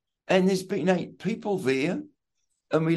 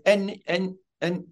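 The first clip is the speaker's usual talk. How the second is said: halting, repeated false start; deliberate stumble. Shown as a demonstration. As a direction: trip over the first word on purpose. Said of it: "deliberately stumbled".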